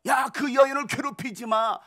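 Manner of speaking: a lightly voiced stern Lord, calling out the church; Jesus rebuking. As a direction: question them like a stern Lord. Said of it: "라고 말씀하시는 거예요".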